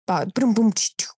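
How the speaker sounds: quick mouth-made drum noises; imitated effect sound. Shown as a demonstration. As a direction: demo a little beatbox.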